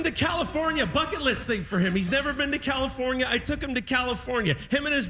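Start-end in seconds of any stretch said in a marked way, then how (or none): none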